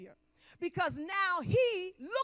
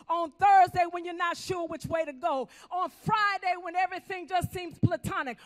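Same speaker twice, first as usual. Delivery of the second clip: preaching shout; 3 semitones higher, 5 dB louder than usual. Real, not acted. Preaching climax.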